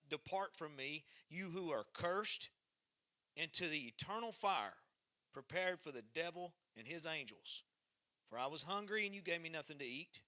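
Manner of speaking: measured Bible reading, rising for the Lord's words; scripture reading. Acted. Reading scripture to the barn church congregation, preacher style. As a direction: read the verses like a preacher at the pulpit. Reads Matthew 25 aloud.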